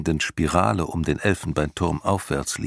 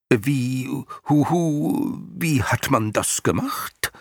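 high, whimpering creature; a fretful little night goblin; 8 semitones higher, slower than usual. A narrator's reading. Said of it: "fragte der Nachtalb".

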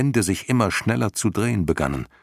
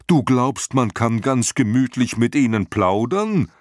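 incredulous dragon; 5 semitones higher than usual. A narrator's reading. Dragon mocks the boy's idea, incredulous. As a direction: scoff at the idea.

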